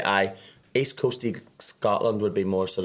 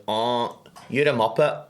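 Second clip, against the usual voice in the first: mock Scottish insult; 3 semitones higher, 4 dB louder, slower than usual. Shown as a demonstration. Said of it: "they can insult you".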